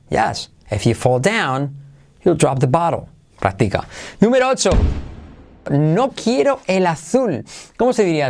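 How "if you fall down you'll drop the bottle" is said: "down" and "bottle" punched in a rhythmic line; swinging intonation peaking on "down" and "bottle"; stress on down, bottle. Shown as a demonstration. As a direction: hit "down" and "bottle". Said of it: "le hacemos la entonación".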